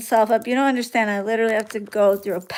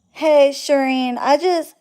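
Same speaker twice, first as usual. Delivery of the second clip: name said with attitude; 4 semitones higher, 4 dB louder, slower than usual. Retold or imitated. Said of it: "that's how I know when somebody has an attitude".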